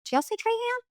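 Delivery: "Trahan" as TRAY-han, high and soft; "Trahan" with long A, sounded N; outsider's pronunciation. Shown as a demonstration. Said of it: "Trahan or Trahan?".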